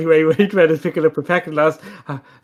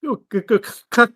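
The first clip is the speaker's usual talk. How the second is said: gun cocking; 7 semitones higher than usual. Pretend. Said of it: "try cocking it again".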